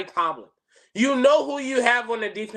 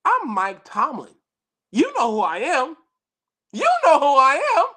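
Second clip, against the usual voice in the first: Tomlin imitation; 3 semitones higher than usual. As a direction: say it like a proud coach. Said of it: "I would straight up say".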